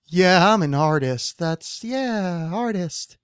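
slow, drawn-out words in mock imitation. Podcaster imitating Warhol in an interview, slow mocking drawl. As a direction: stretch each word out, imitating him mockingly. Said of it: "a insulting retarded voice".

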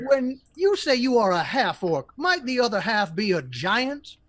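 lightly voiced high gnome professor; a hint of a polite little gnome. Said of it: "I keep falling into your orc voice".

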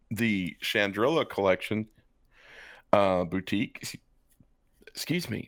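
talking through hiccups. Real, not acted. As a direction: hiccups breaking the words. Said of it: "I've got the hiccups".

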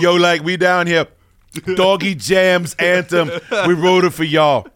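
slow, loud hype-man shoutout. Pretend. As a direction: announce the anthem like a hype man. Hype-man announcement of an anthem.

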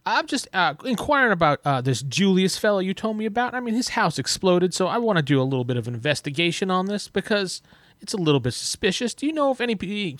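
inquiring Count. Acted. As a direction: probe politely, in character as a nobleman.

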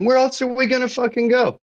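high exasperated squeak of disbelief. Real, not acted. To the group, fed up and pitched high. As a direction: throw the question up in pitch, fed up.

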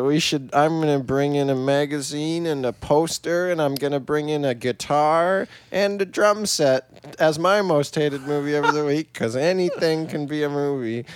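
lightly voiced old lady, low and mocking. Co-host mocking what counts as a movie, lightly voiced old lady. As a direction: mimic your co-host with a hint of old lady. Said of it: "Is that like an old lady voice?".

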